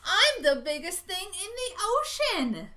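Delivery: loud, proud boast; a cocky squid bellowing his size; boastful squid. Acted. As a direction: puff up and brag like a big squid.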